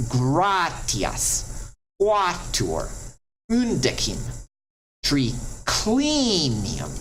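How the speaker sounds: "gratias, quatuor, undecim, triclinium", each stressed on the third-to-last syllable; antepenult stress. Shown as a demonstration. Teacher lists third to last examples, that syllable stressed. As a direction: slowly hit GRA, QUA, UN, CLI in "gratias, quatuor, undecim, triclinium". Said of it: "falls all the way back to the third to last".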